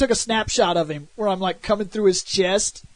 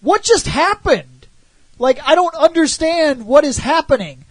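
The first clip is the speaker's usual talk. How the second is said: bewildered; 4 semitones higher, 4 dB louder than usual. Retold or imitated. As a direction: ask it utterly lost, drawing it out. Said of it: "And I was like".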